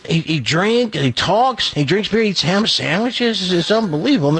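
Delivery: excited. Acted. Bartender pitching duck to circus.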